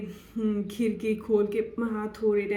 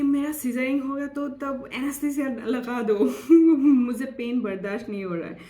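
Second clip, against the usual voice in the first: higher, louder mock plea; retold pleading; 4 semitones higher, 5 dB louder than usual. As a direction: re-enact begging the doctor for relief. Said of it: "मैं बोल रही हूँ कि". (गिड़गिड़ाने की नकल)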